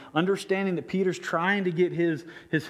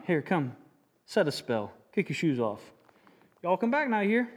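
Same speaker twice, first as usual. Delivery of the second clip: folksy country host inviting friends; lazy porch-side welcome; porch sitter. Acted.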